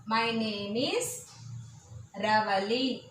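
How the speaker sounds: My name is Ravali drawn out slowly; slow modelled answer. Shown as a demonstration. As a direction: say it slowly for the class. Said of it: "You must pronounce after me".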